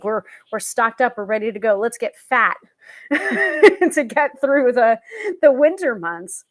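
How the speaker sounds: giggling mock toast to a full larder; mock celebration. Mock harvest celebration cheer.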